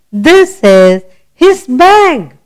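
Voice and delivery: slow, each word apart; slow reading aloud. Shown as a demonstration. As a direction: read it slowly for a child. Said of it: "Let's read the sentence".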